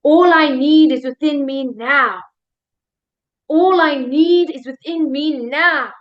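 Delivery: "now" hit hard at the end; slow affirmation driving toward "now"; stress on NOW. Shown as a demonstration. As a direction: land firmly on the final "now". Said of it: "change the emphasis one last time".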